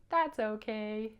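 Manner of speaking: slow, drawn-out, easygoing puppet line; accepting reassurance. Pretend. Bouncer getting over the spilled milk, slow easygoing reassurance. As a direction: stretch it out, bouncing back from upset. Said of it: "But then he would say".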